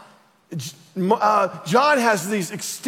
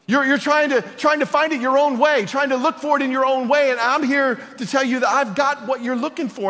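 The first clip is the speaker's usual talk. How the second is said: impassioned Jesus voice; 4 semitones higher than usual. Acted. Preacher voices Jesus before the candles.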